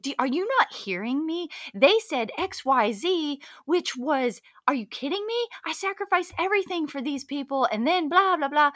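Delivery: retold high-pitched indignant protest; triggered outburst. Client protesting to coach, retold indignant outburst. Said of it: "I got so triggered".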